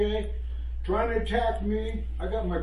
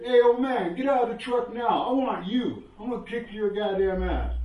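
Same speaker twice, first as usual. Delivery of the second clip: loud, higher tough-guy threat; threatening punk; 4 semitones higher, 3 dB louder than usual. Retold or imitated. Young punk at the truck window challenging the old man, loud threat. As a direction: challenge him to fight.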